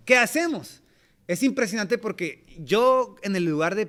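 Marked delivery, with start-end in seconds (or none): 0.1-0.8 much higher and louder pleading question; desperate cry. Retold or imitated. The repentant crowd begging Pedro, loud desperate plea. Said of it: "está diciendo".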